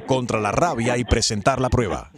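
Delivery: lightly done automated recording; phone menu voice. Acted. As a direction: read it like a robocall message. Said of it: "llamada automatizada".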